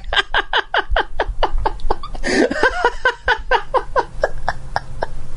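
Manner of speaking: long, high burst of laughter; long real laugh. Real, not acted. Host laughing at a caller naming him the doghouse, real laughter. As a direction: crack up at the caller's jab.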